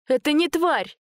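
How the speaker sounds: high, sharp indignant retort; indignant defense. A narrator's reading. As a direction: stand up for him at once. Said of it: "тут же вступилась Машка".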